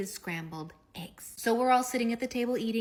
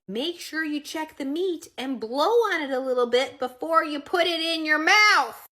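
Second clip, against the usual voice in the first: mom instruction; 6 semitones higher, 8 dB louder than usual. Retold or imitated. Mother's caring instruction.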